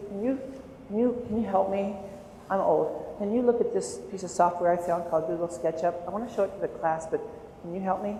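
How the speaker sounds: soft, coaxing plea; gentle asking. Retold or imitated. Teacher coaxing a shy student, soft and gentle. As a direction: ask softly, playing helpless.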